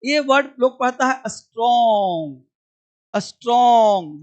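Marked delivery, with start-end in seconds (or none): 1.3-4.2 स्ट्रॉन्ग with a vowel added before s; wrong pronunciation. Shown as a demonstration. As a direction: say स्ट्रॉन्ग as अस्ट्रॉन्ग, slow. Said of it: "गलत". (गलत उच्चारण: स्ट्रॉन्ग से पहले अ लगाकर)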